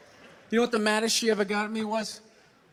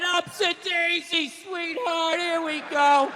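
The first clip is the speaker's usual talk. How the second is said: mock sweet husband; 6 semitones higher, slower than usual. Mock wife beater helping wife up.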